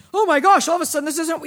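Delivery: loud, high mock dismay; hammed-up outburst of disbelief; mock surprise. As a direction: pretend sudden shock at a tool failing. Acts surprise at blunt knife.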